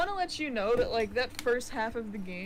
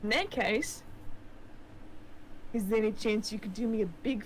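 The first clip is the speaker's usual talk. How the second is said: put-on New Zealand accent. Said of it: "keep using the New Zealand accent".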